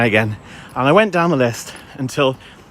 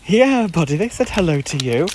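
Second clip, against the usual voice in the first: higher, indulgent pet-owner voice; talking to dog; 5 semitones higher than usual. Real, not acted. Owner tells his dog about the greeting, pet talk. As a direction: lift the pitch to answer your dog.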